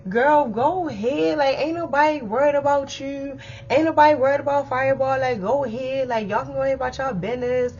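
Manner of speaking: mock dismissive girl voice; dismissive sass. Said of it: "She like".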